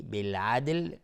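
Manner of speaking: بالعدل whispered without voice. Shown as a demonstration. Teacher repeating بالعدل for students, in a whisper. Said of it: "دقت کنید روی بالعدل".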